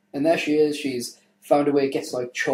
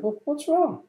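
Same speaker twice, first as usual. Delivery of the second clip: Anne Hathaway voice; 14 semitones higher, slower than usual. Acted. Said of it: "It's like".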